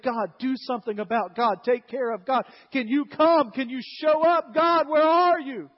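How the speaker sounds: building from a pleading call to a loud, high cry; desperate pleading prayer. Acted. Gideon crying out to God again and again, desperate pleading.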